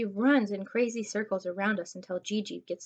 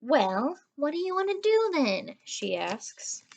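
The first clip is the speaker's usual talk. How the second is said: put-on higher, fast-chattering girl voice; eager pushy girl; 4 semitones higher than usual. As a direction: pester them with ideas. Gigi pestering to play.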